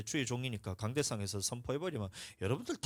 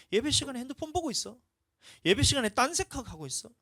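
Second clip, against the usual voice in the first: sneering accusation; 10 semitones higher, 6 dB louder than usual. Retold or imitated. Sneering at congregation's faults.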